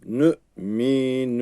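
Nü, mi, nü stretched out, the incorrect take; lengthened wrong way. Shown as a demonstration. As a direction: drag out Nü as the mistake to avoid.

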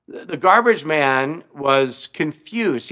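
ordinary talk, nothing marked

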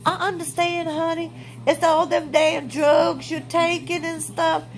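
high, mock soothing; sarcastic sympathy. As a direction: sweet-talk it with sarcasm. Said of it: "us as people are supposed to say".

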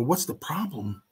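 high, slow, soft repeat; indignant echo. Retold or imitated. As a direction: echo the question back, stretched out. Retold indignant echo of the question.

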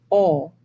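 "Oh" with a low tongue and wide-open throat. Shown as a demonstration. Band teacher shows students the open throat, relaxed "Oh". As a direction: sing out "Oh" like the start of a yawn. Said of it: "like they are when you say".

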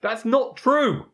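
high, loud, drawn-out protest; playful indignant cry; mock outrage. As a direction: object indignantly, stretching each word.

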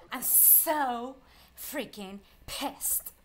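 slow, seething, word by word; pissed off. Real, not acted. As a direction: drag out each word in frustration.

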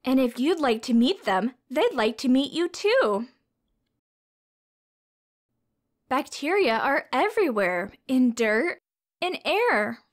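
bright, sing-song storybook read-aloud; reading to children. A narrator's reading. Teacher reading a science picture book to children, storybook voice.

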